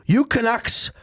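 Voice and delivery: brash New York accent, imitated. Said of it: "in his very New York accent".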